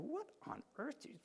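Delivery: high, baffled disbelief at Jesus; incredulous disciples. Retold or imitated. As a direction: play the puzzled disciples asking what he means. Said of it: "this is hilarious to the disciple".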